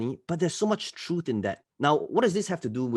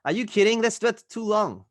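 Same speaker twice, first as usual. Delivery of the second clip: mock outrage; 9 semitones higher, 4 dB louder than usual. Mocking impatient guru clients.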